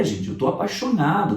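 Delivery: ordinary talk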